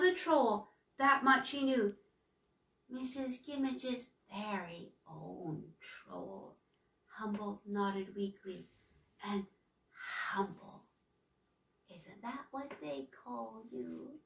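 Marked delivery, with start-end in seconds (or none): 2.9-6.6 creepy raspy woman; raspy witch voice. Acted. Witch voice continues. 9.2-14.2 creepy raspy woman; raspy witch voice. Acted. Witch voice continues.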